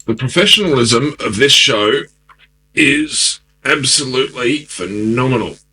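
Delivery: sarcastic. Real, not acted. Sarcastic remark after tech failures.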